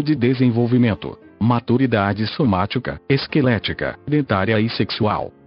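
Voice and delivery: robotic text-to-speech voice. Real, not acted. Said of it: "falo através desta voz sintetizada".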